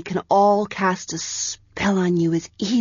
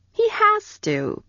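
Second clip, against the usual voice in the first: reasonably; slower than usual. A narrator's reading. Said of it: "Penthi said reasonably".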